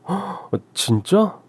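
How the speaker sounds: light up at the good news; delighted surprise. Acted. Father, amazed his daughter won first prize.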